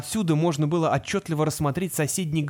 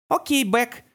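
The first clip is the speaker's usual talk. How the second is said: calling out; 7 semitones higher, slower than usual. A narrator's reading. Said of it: "крикнула она от башни".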